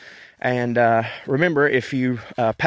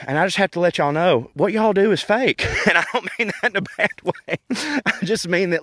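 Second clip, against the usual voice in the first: giggling through the words; laughing as he teases them; 6 semitones higher than usual. Real, not acted. To English listeners, laughing while he teases.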